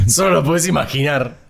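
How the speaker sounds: loud laughing jab; laughing tease. Real, not acted.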